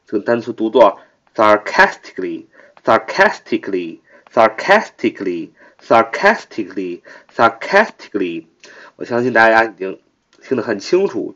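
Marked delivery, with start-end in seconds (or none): 1.3-8.5 sarcastically with the stress on CAS; stress on second syllable. Shown as a demonstration. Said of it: "重音在开那儿啊". (sarcastically，重音在 cas)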